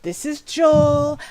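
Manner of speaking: high, slow and loud character voice; a bright character voice drawn out; high NPC voice. Acted. Game master introduces the NPC in a high voice.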